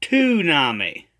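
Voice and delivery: "toonami" begun with a hard t, too-NAH-mee; mispronounced tsunami. Retold or imitated. Critic imitates the prophet's error, "toonami" with a t sound. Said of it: "He pronounces tsunami as toonami".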